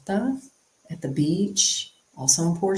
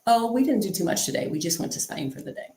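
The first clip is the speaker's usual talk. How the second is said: matter of factly; 4 semitones higher, faster than usual. Shown as a demonstration. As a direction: toss it off like nothing special. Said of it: "just matter of factly".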